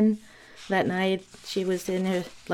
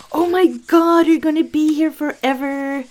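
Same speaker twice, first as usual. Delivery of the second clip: dad's reaction; 8 semitones higher, 6 dB louder than usual. Retold or imitated. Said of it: "her dad was like".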